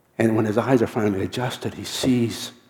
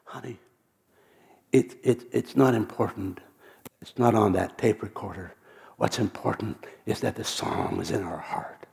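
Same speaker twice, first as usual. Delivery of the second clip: reassuring. Retold or imitated. Pam comforts her crying husband.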